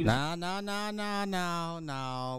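rising, scoffing "nah nah"; dismissive nah. Real, not acted. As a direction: wave it off with disbelief. Reactor waves off the excuse.

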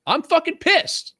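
high, slow hammed-up rage; mock fury. Venting to Josh in a hammed-up high slow fury. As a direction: ham up being furious, half joking. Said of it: "Is that how I do it?".

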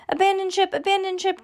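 very high alarm call; high-pitched mock panic; crying out. A narrator's reading. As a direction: cry out a warning to flee. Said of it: "Judy cried".

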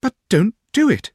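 very high coaxing plea; wheedle, pitch swooping right up; pretty, pleading little voice; Dora. Acted. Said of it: "in her pretty coaxing way".

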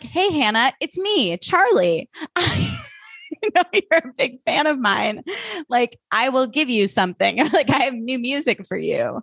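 high-pitched mock pop singer, laughing between phrases; fake celebrity fan-baiter. Host mimicking creepy fake messages from a pop singer, high mock impostor. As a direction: put on a high, coaxing impostor voice.

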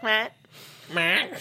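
short grunted reply in a mock Swiss accent; imitated Swiss accent. Quoting a puzzled friend, mock Swiss accent. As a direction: mimic a Swiss friend's brief reaction. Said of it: "so she sounds like that".

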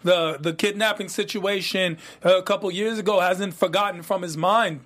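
reviews the plot in a hammed-up London roadman accent; put-on London roadman accent. Cohost recaps the plot in a put-on London roadman accent. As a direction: keep up the London roadman slang. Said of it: "this accent you're giving me".

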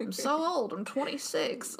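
lightly put-on old person whine; a hint of grumbling old fogey. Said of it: "I act like I'm just some kind of old fogey".

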